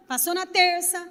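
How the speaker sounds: ordinary talk, nothing marked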